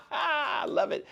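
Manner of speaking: slow, high laugh into I love it. Real, not acted. Host delighted by his own now o'clock line, laughing. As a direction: chuckle at his own joke.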